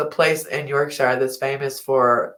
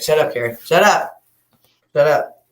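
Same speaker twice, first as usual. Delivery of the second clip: loud, short "shut up"s; telling off; 5 dB louder than usual. Real, not acted. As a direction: cut them off, louder each burst. Telling someone off repeatedly.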